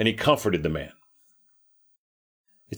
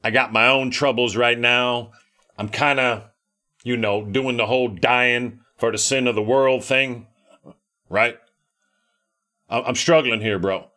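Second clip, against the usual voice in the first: laid-back bro talk, lightly put on; casual slangy Jesus. Preacher imagining a self-absorbed Jesus, mock casual bro voice. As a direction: brush him off like a stressed buddy. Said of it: "I might have said".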